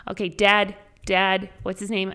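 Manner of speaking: doctor rousing dad. Retold or imitated. Doctor to a dead-asleep dad, calling out. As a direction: call out to rouse him, retold. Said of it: "Doctor Kang was like".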